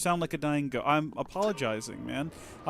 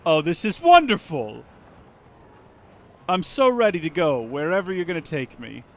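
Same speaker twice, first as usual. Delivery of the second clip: excited; 3 semitones higher, 9 dB louder than usual. Real, not acted. Excited about vehicle ride.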